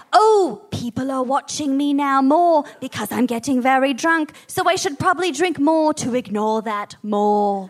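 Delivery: a bad, light Irish accent; a lightly done Irish accent on a celebrity quote. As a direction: put on a hint of an Irish lilt. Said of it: "that was my Irish accent".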